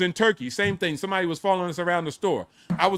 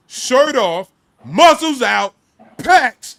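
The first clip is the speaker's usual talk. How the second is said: loud, higher-pitched bragging; hyped boast; 3 semitones higher, 8 dB louder, slower than usual. Retold or imitated. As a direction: punch out each boast loudly, drawing out the ends. Hyped boast while telling his story.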